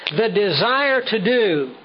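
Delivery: slow phrase landing on "do"; stress on DO. Shown as a demonstration. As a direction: draw out "the desire to do", weight on "do". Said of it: "I underline and emphasize the word do".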